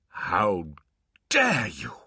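rising loud disbelief; outraged disbelief; incredulous. Acted.

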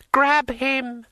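high, loud shriek; screaming. A narrator's reading. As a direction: scream the order in fury. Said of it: "she screamed".

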